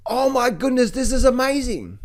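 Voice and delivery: lightly gushing over a hot market; a hint of giddy excitement; imagined euphoric investor. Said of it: "you know".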